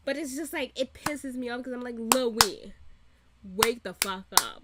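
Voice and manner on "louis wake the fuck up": louder, fed-up call to Louis; a viewer yelling at the screen in frustration; exasperated yell. Retold or imitated. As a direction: shake him awake with your voice. Yelling at a TV character.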